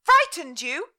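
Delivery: high, loud indignant cry; outraged cry. Acted. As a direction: fling the words back at her in outrage. Mother confronts her daughter.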